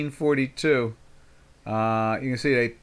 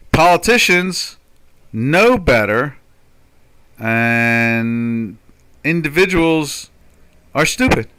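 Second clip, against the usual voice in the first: slow, louder, sneering mock of the elites; mocking sarcasm; 5 dB louder, slower than usual. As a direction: spell out the absurd idea with scorn. Mocking the socialist view.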